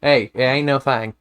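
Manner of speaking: easy Southern twang; casual Southern lilt; Southern accent. Shown as a demonstration. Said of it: "actively suppressing a Southern accent".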